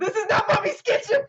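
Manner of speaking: light mock French chef lady, half laughing; a hint of the Ratatouille cook scolding. Player imitates the Ratatouille cook shouting, lightly mocked. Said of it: "lady from Ratatouille style".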